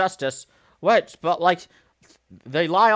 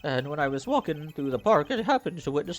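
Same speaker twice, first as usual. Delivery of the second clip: witness voice; 6 semitones higher than usual. Acted. Voices witness testimony again.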